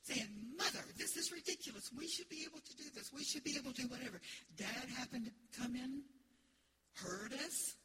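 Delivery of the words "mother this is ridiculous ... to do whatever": imitating whiny daughters, higher and fast; mock teen attitude. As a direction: play the sassy daughter, lightly. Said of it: "with a little attitude".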